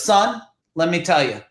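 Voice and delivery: lightly voiced big Italian dad, unhurried; a hint of his father's wise tone; imitating dad. A hint of dad teaching his son business. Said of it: "And he'd say it just like that".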